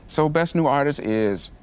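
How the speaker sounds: slow build to a high, puzzled squeak on the name; incredulous award announcer. Retold or imitated. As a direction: read the winner out in mock disbelief. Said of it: "they read it like that".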